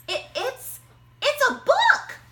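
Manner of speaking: stammer, then burst out very high and loud; delighted shout. Acted. Amy finding a book in the hat, high squeal. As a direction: squeal of discovery. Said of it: "shouted Amy".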